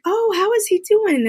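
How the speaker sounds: high, eager coworker question; gushing coworker. Retold or imitated. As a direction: squeal out the question like a thrilled coworker.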